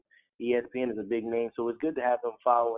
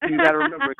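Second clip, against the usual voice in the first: squeaky high voice; 8 dB louder, faster than usual. Real, not acted. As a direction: voice jumps way up high and loud. Squeaky outburst, co-host laughs.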